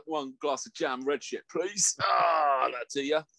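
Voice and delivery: shouted bar order, hammed up. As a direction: call your order across the bar.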